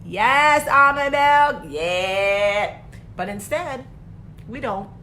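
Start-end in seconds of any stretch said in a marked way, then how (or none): 0.0-2.8 loud happy outburst over almond milk; excited yes. Retold or imitated. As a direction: blurt it out like you just won. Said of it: "you'll be like".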